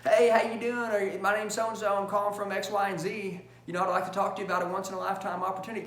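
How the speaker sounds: chirpy cold-call sales pitch, rushing the end; salesman pitch. Shown as a demonstration. Trainer mocking a rep's pitch to sales students, salesy. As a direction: sound like a telemarketer reading a pitch. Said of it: "you sound like a pitch".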